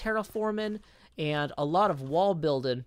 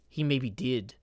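New Zealand accent; 5 semitones lower than usual. Shown as a demonstration. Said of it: "the closest I could get is kind of like".

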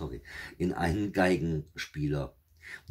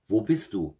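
louder, higher searching call; 5 semitones higher, 6 dB louder than usual. A narrator's reading. Witch searches the empty kitchen, calling out. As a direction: raise the voice to find someone. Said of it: "Da rief sie noch einmal".

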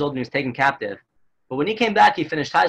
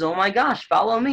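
mock urgent exclamation, pitched up; retold urgent call; 5 semitones higher than usual. Officer calls soldiers to follow him, retold urgency. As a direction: raise the pitch as if rallying someone.

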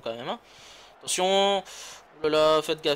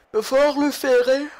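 loud emphatic; 7 semitones higher, 8 dB louder than usual. Real, not acted. Louder higher repeat.

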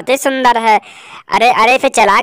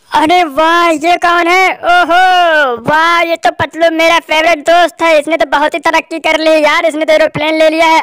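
Patlu character voice; 4 semitones higher than usual. Acted. Cartoon friend Patlu voiced.

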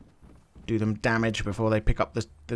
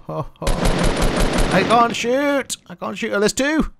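high laughing wail; 11 semitones higher, 8 dB louder, much slower than usual. Real, not acted. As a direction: laugh through the words. Missing shots, laughing.

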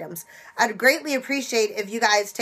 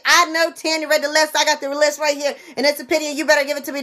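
pushy, raised voice insisting on the price; mock demanding customer; 4 semitones higher, 3 dB louder, faster than usual. Shopper arguing with the cashier over a penny item, demanding. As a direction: argue your case loudly at the till. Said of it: "do not sit there and say".

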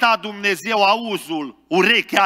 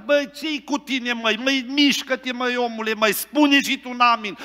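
put-on higher-pitched old church brother nudging his neighbours; old brother urging; 6 semitones higher than usual. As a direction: prod the silent man beside you to say amen. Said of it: "dădea coate în stânga, în dreapta și".

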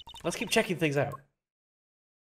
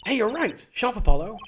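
excited; 7 semitones higher, 8 dB louder than usual. Acted. Excited character praise.

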